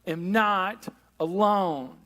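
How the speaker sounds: "I am not alone" said very slowly and deliberately; slow affirmation. Shown as a demonstration. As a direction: speak it slowly, as a vow to the room. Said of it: "look around at the people next to you and go".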